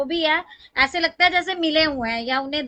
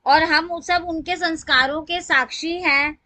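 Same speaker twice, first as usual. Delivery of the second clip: measured reading with phrase-by-phrase pauses; formal tribute recital. Acted. Devotee reading her written lines to the satsang, formal recital.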